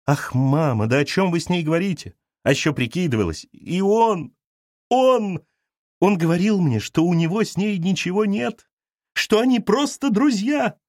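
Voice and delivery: put-on a hurt young wife pleading to her mother; upset daughter. Galya complains to mother. (обиженная дочь жалуется матери, высоко)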